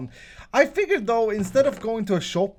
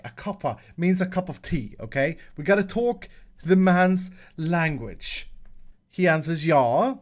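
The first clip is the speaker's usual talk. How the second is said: lightly imitated British accent; put-on British accent. Shown as a demonstration. Host explaining the man's language to viewers, in a put-on British accent. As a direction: have a go at sounding British. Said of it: "I gotta put on my British accent".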